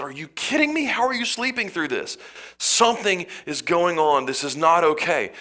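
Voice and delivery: high, disbelieving outcry at a sleeper; waking him up in shock; incredulous sailors. Acted. Sailors shaking awake sleeping Jonah, high incredulous outcry.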